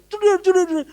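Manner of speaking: high, rattled-off "jeder" thuds; imitated banging. Pastor mimics late-night head banging, imitated banging.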